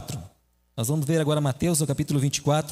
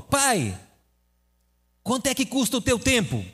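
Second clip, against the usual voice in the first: higher, lightly voiced little boy; child asking; 6 semitones higher than usual. Son asks his busy father a question, lightly childlike. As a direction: ask like a curious small child.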